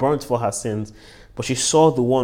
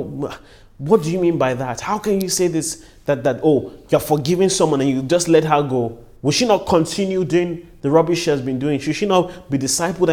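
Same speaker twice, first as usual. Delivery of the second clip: higher-pitched protesting questions; indignant objectors; 4 semitones higher, 4 dB louder than usual. Acted. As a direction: voice the crowd's objection, pressing each question. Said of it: "many people might rally and, and ask".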